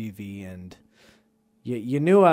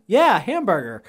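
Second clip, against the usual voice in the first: put-on child voice; 7 semitones higher, 8 dB louder than usual. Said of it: "He's like".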